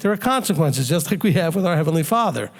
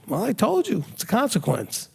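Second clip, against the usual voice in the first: calm parent reply, trailing softer; 3 semitones higher, 5 dB quieter than usual. Acted. Parent answering a protesting teenager, calm. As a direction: answer the outburst calmly, almost softly. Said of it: "Just very calmly say".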